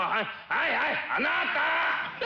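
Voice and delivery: slow, drawn-out coy handover; coy offering. Acted. Wife hands her husband the rice bowl, coyly and slowly. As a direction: offer it sweetly, stretching each word.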